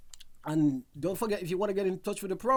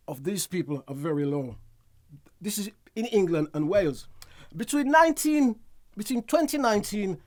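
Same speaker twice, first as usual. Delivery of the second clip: news read. Acted. Reads out a news item.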